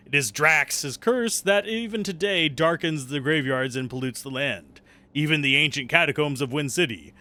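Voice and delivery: solemn storybook narration; story narration. Acted. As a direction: read the legend like an epic tale. Reads game's lore book.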